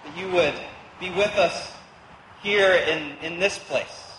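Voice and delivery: hushed, reverent prayer voice; opening prayer. Acted. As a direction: pray it gently, trailing down at the end. Opening prayer before sermon.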